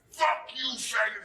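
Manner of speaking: Mitch snarls it high and loud; a high, loud insult; angry yell. Retold or imitated. Mitch getting back up to attack the comedian, angry yell.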